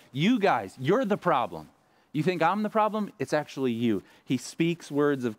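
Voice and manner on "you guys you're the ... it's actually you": jab the finger at the crowd and blame them; retold angry tirade rising sharply on the question; berating. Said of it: "He says".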